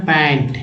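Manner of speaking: पैंट ending on t, no s; पैंट, drop the s; no final s. Shown as a demonstration. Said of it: "एस नहीं लगाना". (एस के बिना पैंट)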